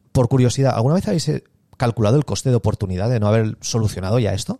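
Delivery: offhand curious question; casual. Shown as a demonstration. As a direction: ask it as if it were nothing. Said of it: "Lo hago como si nada".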